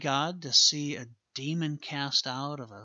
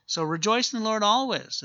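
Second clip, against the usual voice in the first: fervent exhortation; 8 semitones higher, 6 dB louder than usual. Acted. Exhorting the congregation.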